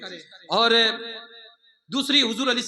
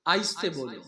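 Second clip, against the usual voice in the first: lower, softened gentle admonition; speak softly; 8 semitones lower, 5 dB quieter than usual. Shown as a demonstration. Preacher passing on the Quran's call to speak softly, quietly. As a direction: say it low and hushed. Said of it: "وغضض من صوتک".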